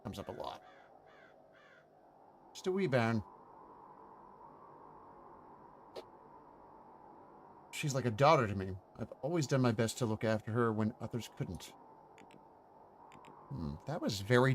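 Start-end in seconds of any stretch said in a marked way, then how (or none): 2.5-11.7 fond Scottish caretaker, light; a hint of Scottish, "wee bairn" tender; Scottish accent. Groundskeeper speaks fondly of the girl, Scottish. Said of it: "That's from watching some Scottish stuff".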